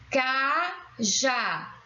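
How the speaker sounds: "Cajá" as two separate syllables. Shown as a demonstration. Teacher showing the stressed syllable, "Cajá" syllable by syllable. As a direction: split "Cajá" into ca, já. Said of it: "A sílaba tônica".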